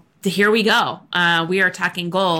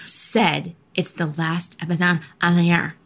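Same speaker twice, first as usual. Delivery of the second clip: annoyed voice; 2 semitones lower, slower than usual. Acted. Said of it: "Why are you talking like that?".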